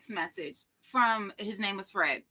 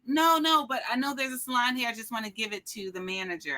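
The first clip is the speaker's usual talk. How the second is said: eager pleading; faster than usual. Retold or imitated. Pleading with the security guard.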